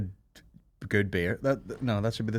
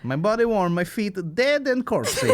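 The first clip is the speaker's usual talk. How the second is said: mock Russian; 3 semitones higher than usual. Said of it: "It's so Russian to be like".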